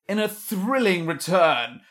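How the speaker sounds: slow, grand announcer build-up; dramatic trailer voice. Acted. Husband teasing the podcast return, trailer style. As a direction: hype it like a movie trailer. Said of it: "You're building this right up".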